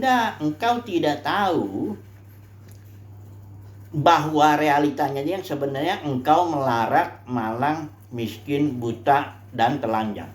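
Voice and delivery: slow, grave rebuke; voice of God. Retold or imitated. Preacher voicing God's slow, solemn rebuke to the church. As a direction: deliver judgment slowly and gravely. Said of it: "kata Tuhan gini".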